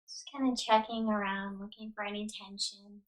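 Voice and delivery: unhurried yoga nidra guidance with long pauses; guided meditation. Real, not acted. Yoga teacher settling listeners onto the ground, calm guided meditation. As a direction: guide them into rest, leaving space after each instruction.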